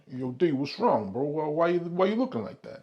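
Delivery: Italian-American guy checking on a buddy; mock Italian accent, questioning. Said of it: "I'm doing my Italian accent".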